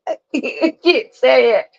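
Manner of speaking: slow words through real giggles; breaking up mid-sentence; laughing. Real, not acted. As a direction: giggle helplessly at your own stumble. Laughs at failing to say word.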